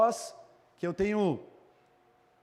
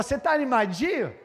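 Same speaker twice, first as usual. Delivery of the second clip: raised, louder teasing question; imitating a friend; 5 semitones higher, 4 dB louder than usual. Football friend checks on him, imitated in a loud, raised voice. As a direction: call it out as the football friend would. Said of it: "Tinha um amigo meu, irmão, que falava".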